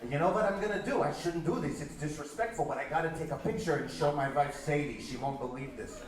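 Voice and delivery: put-on Yiddish accent. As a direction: confide the plan in a Yiddish accent. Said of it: "forgive my terrible Yiddish accent".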